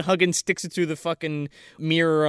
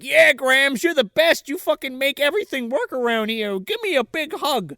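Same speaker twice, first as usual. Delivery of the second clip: high, enthusiastic put-on praise; mock gushing; 9 semitones higher than usual. Parents suddenly turn round and praise grandma, high mock gushing. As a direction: gush it in a pitched-up voice.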